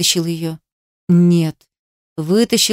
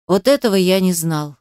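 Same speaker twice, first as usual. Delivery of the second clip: ordinary delivery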